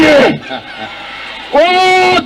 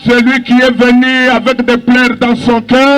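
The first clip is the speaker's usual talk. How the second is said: fervent sermon cadence, half shouted; preaching. Acted. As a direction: preach it to the crowd. Preacher in full flow.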